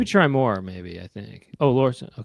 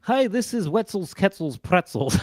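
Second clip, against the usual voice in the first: pitchman voice; 4 semitones higher than usual. Acted. Pitchman voicing brand.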